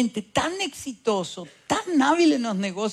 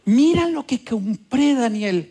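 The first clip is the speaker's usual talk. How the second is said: mother showing off; 5 dB louder than usual. Retold or imitated. Mother proudly showing her son a gift, raised voice. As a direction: show the purchase like a pleased mom. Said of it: "Yo digo".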